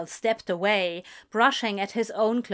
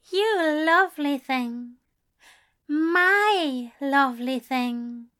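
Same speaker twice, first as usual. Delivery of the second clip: tender murmur; 4 semitones higher, slower than usual. A narrator's reading. Aziraphale nuzzling Crowley's ear, tender and slow. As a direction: savour each word lovingly.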